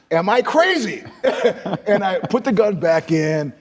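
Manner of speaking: high manic laugh around the words; half-crazed laughing question. Retold or imitated. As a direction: cackle at your own madness. Robbing a guy at gunpoint.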